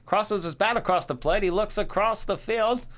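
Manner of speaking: 1950s baseball call, rising high; old-time radio announcer. Pretend. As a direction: call the game like a fifties announcer. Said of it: "the old-time announcer voice".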